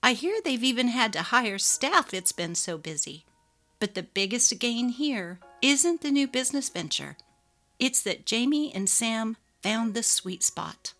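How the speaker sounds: lightly voiced closing narration; gentle moral at story's end. A narrator's reading. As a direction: wrap up the tale like a storyteller.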